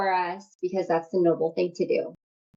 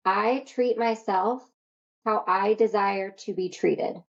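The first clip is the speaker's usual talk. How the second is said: slow affirmation; slower than usual. Shown as a demonstration. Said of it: "this is your promise to yourself".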